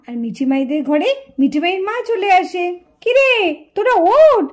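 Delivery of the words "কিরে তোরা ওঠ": put-on mother loudly waking the girls in the morning; mother calling out. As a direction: rouse sleeping children sharply.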